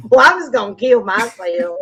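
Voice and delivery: mock upset country kid; country little kid. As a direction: imitate a small boy's country accent. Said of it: "it, it's so country".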